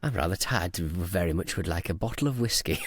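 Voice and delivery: careful, proper English accent; politely request it in mock-refined English; put-on polite English for abroad. Shown as a demonstration. Tired traveller asking for whiskey, mock-refined English accent. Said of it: "talk a little bit like this when I'm abroad".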